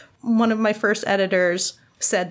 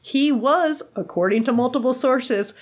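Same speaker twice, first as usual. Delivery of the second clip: defensive quote voice; 4 semitones higher than usual. Retold or imitated. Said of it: "I'm like".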